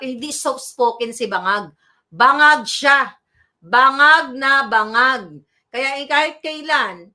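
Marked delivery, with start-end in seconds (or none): 2.1-5.4 loud, slow, scornful insult; loud scornful jab. Real, not acted. Commentator scorning the official to viewers, loud and slow. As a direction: hammer each word out with contempt.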